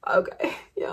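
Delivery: soft unvoiced resigned whisper; whispered inner thought. Viewer's inner thought about Fat Louie, whispered. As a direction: breathe it out like a private resignation. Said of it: "and you're thinking".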